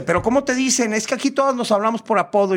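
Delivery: high, campy explaining voice; imitated performer. Performer explains everyone uses nicknames, high camp voice. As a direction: press for it in a put-on high voice. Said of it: "y me dice".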